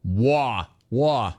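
imitating a New Yorker saying "war"; teasing New York pronunciation of "war"; mock New York accent. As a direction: stretch "Wah" like a New Yorker. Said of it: "Bro, are you from New York?".

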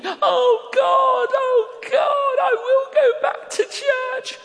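loud, very high hammed-up wail; hammed-up imitation of a man bawling to God; imitated weeping. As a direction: cry out in a mock-sobbing shriek. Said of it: "He's weeping. And he's going".

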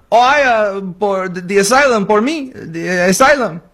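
a lightly done, bad mock Mexican accent. Host imitating a migrant claiming asylum, bad Mexican accent. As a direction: fumble the words in a hammed-up fake Mexican accent. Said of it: "speaking a really bad Mexican accent".

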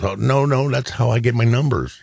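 retold comedian's protest. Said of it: "He goes".

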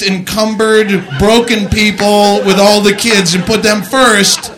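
loud slow exasperated rant; angry rant. Acted. Mock airline boarding rant.

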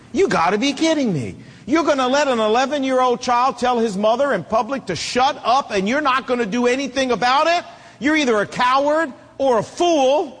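mildly indignant, mock reproach of a weak father; indignant disbelief. Onlooker silently rebuking a lenient dad, indignant disbelief.

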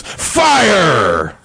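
high loud full-throated shout; yell at top of lungs. Acted. Deacon shouts the punchline at the squad, full yell. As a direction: scream it with everything. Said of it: "yelled out at the top of his lungs".

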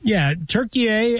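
Turkey said as Tur-kee-yeh, bright and lifted; Turkiye pronunciation. Shown as a demonstration. Co-host repeating the rebranded name back, Turkey as Tur-kee-yeh. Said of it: "saying Turkey instead of Turkey".

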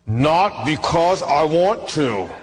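slow, mock reluctant grumble; grudging. Preacher admitting he paid the tax unwillingly, mock grumble. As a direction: say it through a grudging laugh. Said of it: "I felt like saying".

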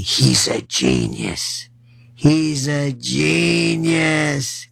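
slow sarcastic "He's a genius"; mocking. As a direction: sneer out the praise slowly. Mocking Republicans praising Mamdani.

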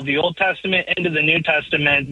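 ordinary talk

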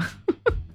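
amused laugh. Real, not acted. Laughs before greeting the listener.

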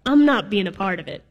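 grumpy Toad. Retold or imitated. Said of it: "Toad is like".

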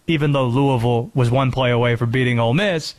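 usual speaking voice

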